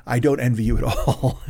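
chuckling through the words; amused laugh breaking in. Real, not acted. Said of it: "I don't mean to laugh".

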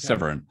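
Severn with an R in it, sev-ern; a light laugh, then Severn with a local R; local Gloucestershire pronunciation. Shown as a demonstration. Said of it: "There'd be an R in it".

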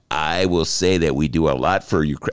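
a hint of Trump bragging; Trump imitation. Host quoting Trump's call to the co-host, a mild Trump voice. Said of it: "That's my Don Trump imitation".

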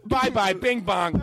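slow, goofy goodbye laughing; silly sign-off. Acted. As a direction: drag out a goofy farewell.

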